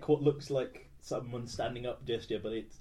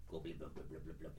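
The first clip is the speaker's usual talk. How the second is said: soft low bubbling gabble; shouting underwater; 7 semitones lower, 11 dB quieter than usual. Acted. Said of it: "Much, much like this".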